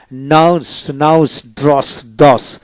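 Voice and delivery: নাউস ending in a clear dental "s". Shown as a demonstration. Teacher showing the next spelling rule, dental S demonstration. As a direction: say ড্রস with final "s", not "sh". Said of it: "দন্তাস্য জুন".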